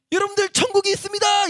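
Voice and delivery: high, full-voiced proclamation; loud street preaching. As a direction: shout it across the square like a street preacher. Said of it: "목소리 너무 커지니까". (광장이 울리게 크게 외치기)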